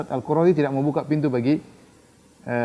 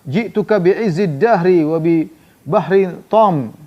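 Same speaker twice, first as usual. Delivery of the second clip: boastful proclamation; 3 semitones higher, 4 dB louder, slower than usual. Retold or imitated. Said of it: "Kata Huyai".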